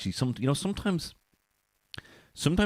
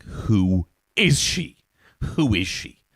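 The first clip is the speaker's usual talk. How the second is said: slow, louder, drawn-out awe; smitten awe; 2 semitones higher, 5 dB louder, much slower than usual. Pretend. First seeing Knuckles as a kid, smitten awe. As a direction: gasp it like love at first sight.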